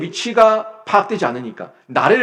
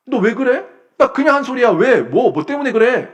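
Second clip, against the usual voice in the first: higher, pushy "what's your problem" tone; mock defensive retort; 7 semitones higher than usual. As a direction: throw it back at them, half acting the quarrel. Acted quarrel, defensive retort.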